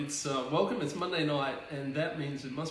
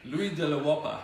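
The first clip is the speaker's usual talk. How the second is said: put-on French accent; 6 dB louder than usual. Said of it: "speaking in this very sexy French voice".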